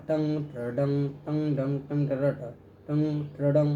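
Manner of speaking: টাং ট্রা ডাং spoken as crisp rhythmic strum sounds; rhythmic strum syllables. Shown as a demonstration. Teacher voicing strum sounds টাং ট্রা ডাং in rhythm. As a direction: chant টাং, ট্রা, ডাং in an even beat. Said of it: "এটার উচ্চারণ বা এই সাউন্ডটা হবে".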